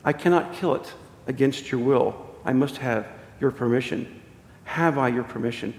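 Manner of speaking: acted restrained authority; calm insistence. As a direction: ask gravely and quietly for consent. Angel calmly requires consent.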